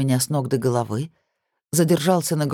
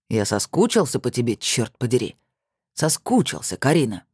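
pushy ex-husband; 4 semitones lower than usual. A narrator's reading. Ex pins her, pleading.

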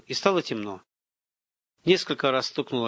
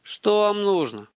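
higher, strained croaked questions; weakly rasped questions; hoarse croak; 8 semitones higher, much slower than usual. A narrator's reading. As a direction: croak it out slowly with effort. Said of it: "прохрипел".

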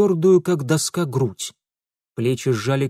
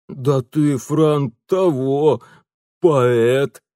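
loud, hoarse thug voice; approving rasp; 5 dB louder, much slower than usual. Acted. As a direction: rasp out grudging admiration. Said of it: "одобрительно прохрипел Петро". (одобрительный хрип)

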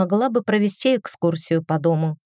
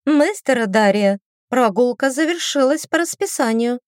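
prim governess; 5 semitones higher than usual. Acted. Governess announces formally.

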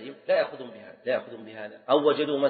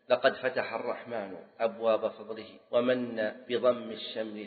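put-on teacher reciting an old verse; poem recitation. Shown as a demonstration. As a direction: recite the couplet metrically, unhurried.

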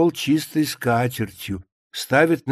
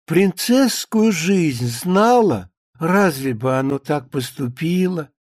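lightly hammed-up rapture; maid swept up in a romance; 3 semitones higher than usual. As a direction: gush over the novel, then sigh over a lost life.

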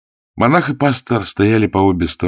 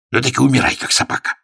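indignant; 8 semitones higher, 3 dB louder, faster than usual. A narrator's reading. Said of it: "в негодовании".

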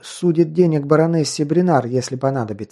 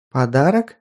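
sweetly surprised. Acted. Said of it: "мило удивилась в ответ Вереск".

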